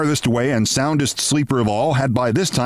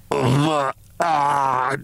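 choking. A narrator's reading. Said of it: "choked Briggs like a drowning man".

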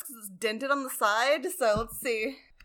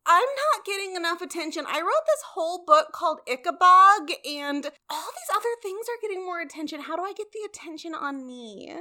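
mocking impression; 7 semitones higher than usual. Mock quote of a famous author.

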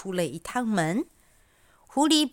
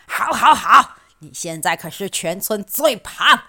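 eager fox; 7 dB louder than usual. Acted. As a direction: hurry him in, eager. Fox shoves piglet into oven.

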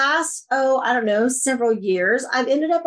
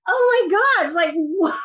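mock-gasped, much higher oh my gosh; retold surprise; 8 semitones higher, slower than usual. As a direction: replay the stunned delight. Retells her delighted surprise.

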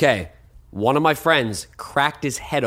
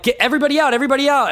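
raised, high-pitched holler; retold calling out; 10 semitones higher, 3 dB louder, faster than usual. Host retells clearing his house party, calling out. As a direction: call it out to clear the room.

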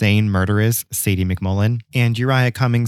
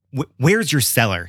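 understated angry demand; lightly voiced villain's question; mild narrated snarl; 4 semitones higher than usual. A narrator's reading. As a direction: press for an answer with a touch of menace. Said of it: "he snarled".

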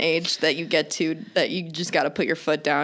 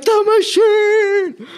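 mock shout; 13 semitones higher, 7 dB louder, much slower than usual. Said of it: "I wasn't gonna be like".

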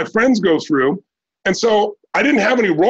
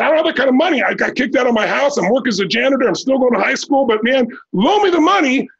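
higher-pitched, eager plea for a chance; earnest plea; 4 semitones higher than usual. Retold or imitated. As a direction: retell a broke teen talking someone into it. Young self pleads for a loan.

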